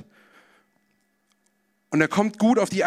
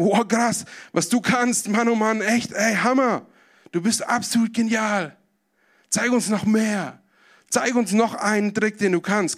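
higher, cheering and begging for more; excited crowd; 4 semitones higher, slower than usual. Acted. Amazed crowd demanding another trick, excited and high. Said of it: "die Leute sind wieder absolut begeistert".

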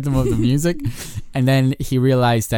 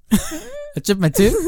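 put-on slow, high northern accent; drawn-out northern accent, rising at the end; 10 semitones higher, slower than usual. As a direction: stretch it out in an imitated northern accent, pitched up. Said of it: "the accent you're putting on".

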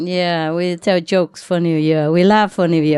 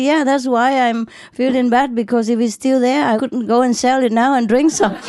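laughing punchline; 6 semitones higher than usual. Retold or imitated. Punchline of drunk man joke.

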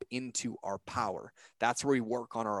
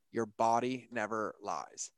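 slower, weighting "body" in "Your body never lies."; slow emphatic repeat; 4 dB quieter, slower than usual. Shown as a demonstration. Repeating his partner's saying, slow emphatic second take. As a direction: let "Your body never lies." land slowly, stressing "body". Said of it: "that nails me every time is".

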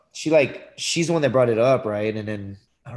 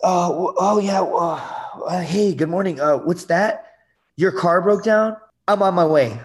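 louder, higher, flustered eagerness; eager to please; 6 semitones higher, 5 dB louder than usual. Acted. Ex answering her three a.m. call, eagerly flustered. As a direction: drop everything to help, voice raised and eager. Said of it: "call me at three in the morning".

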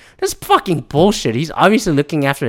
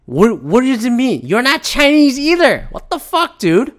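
high-pitched, baffled protest; high, disbelieving retort; incredulous reaction; 8 semitones higher than usual. Retold or imitated. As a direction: act out a bewildered objection, voice jumping way up. Retelling his incredulous reaction.

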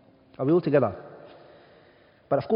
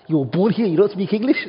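incredulous rise on don't, a bit louder; shocked question; 5 semitones higher, 4 dB louder than usual. Retold or imitated. Imagined Brit asks a UK-born man, incredulous. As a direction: ask it in disbelief.

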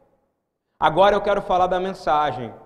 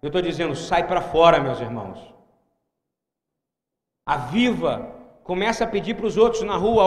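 normal talking voice

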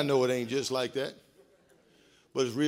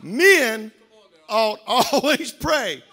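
laughing through the verse; 6 semitones higher, 9 dB louder, much slower than usual. Real, not acted. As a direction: chuckle out the scripture.

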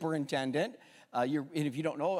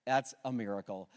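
softer, lower hushed restatement; quiet awe; 7 semitones lower, 5 dB quieter than usual. Real, not acted. Pastor letting the truth settle on the church, hushed. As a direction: let it sink in gently.

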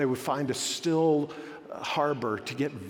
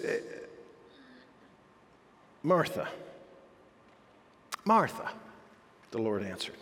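firm but gentle; 4 semitones higher than usual. Acted. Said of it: "says something very firmly to her, even though he says it gently".

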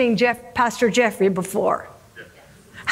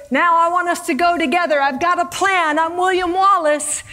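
lightly acted, higher rallying speech; a hint of a commander urging on troops; mildly declamatory call to the men; rallying leader; 5 semitones higher, 3 dB louder than usual. Acts Wallace rallying his troops.

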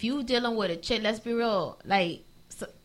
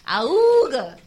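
cartoon horn honk; 7 dB louder than usual. Shown as a demonstration. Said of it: "the cartoon horn sound".

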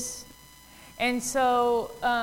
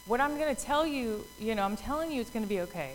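softer, quick, soothing retelling; gentle reassurance; 5 dB quieter, faster than usual. Retold or imitated. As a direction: reassure worried followers quietly. Acting out Jesus reassuring the disciples.

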